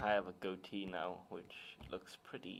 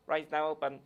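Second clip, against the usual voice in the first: louder, raised announcement voice; ride announcer; 6 semitones higher, 8 dB louder than usual. Retold or imitated. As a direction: announce it to the whole queue. Acting out the ride reopening announcement.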